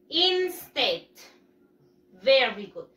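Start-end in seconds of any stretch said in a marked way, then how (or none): 0.1-1.1 Instead said clearly, in-STED; model word. Shown as a demonstration. Teacher saying the word before pupils repeat, clear. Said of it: "Repeat after me".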